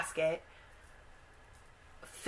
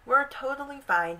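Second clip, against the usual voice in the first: higher, emphatic brush-off of worry; acted-out boy reassuring his sister; 6 semitones higher, 4 dB louder than usual. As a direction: insist brightly that all is well. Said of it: "He kind of reassures her".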